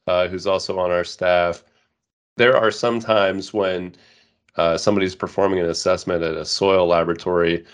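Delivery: reading through a blocked, nasal voice; a stuffy-nosed nasal read. Real, not acted. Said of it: "my most, uh, nasally, uh, voice".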